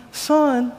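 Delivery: soft, kind motherly "Son."; a mother tenderly calling "Son."; nice gentle tone. Pretend. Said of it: "Does she have a really nice tone?".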